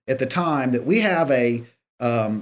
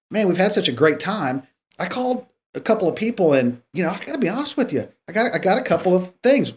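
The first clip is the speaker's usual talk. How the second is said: easy-going and kind, lightly voiced; friendly, gentle tone; 5 semitones higher than usual. Gently raising bad references with the candidate, lightly voiced. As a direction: soften it like talking to a friend. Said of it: "I said".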